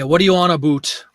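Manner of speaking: "about" said as "a-boot"; mock-Canadian accent, "about" rhyming with boot; Canadian "aboot". Shown as a demonstration. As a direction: exaggerate a Canadian "about" with an oo vowel. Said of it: "absolutely does the about".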